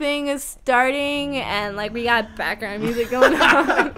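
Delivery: put-on airy Valley Girl chatter. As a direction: keep the Valley Girl act going. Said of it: "doing that Valley Girl voice".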